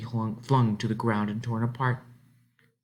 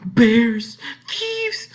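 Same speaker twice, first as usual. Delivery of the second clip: gasping, much higher and louder; frightened gasp; 13 semitones higher, 8 dB louder than usual. A narrator's reading. Lone girl panics at the dark woods, frightened gasp. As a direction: gasp out the dangers in rising fear.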